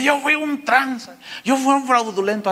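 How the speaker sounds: confesión actuada, algo aguda; pecadores confesando. Acted. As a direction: imita a la gente confesándose en voz alta. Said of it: "llegaba la gente". (confesión dramatizada)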